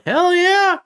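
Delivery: sudden high excited shout. Real, not acted. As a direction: blurt it out, thrilled. Excited about hundred miles gallon.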